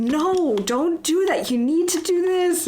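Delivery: put-on exasperated shouting, high and drawn-out. Retelling how they react while watching a YouTuber play: imitating own screaming at the TV. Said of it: "screaming at the T V as I watch".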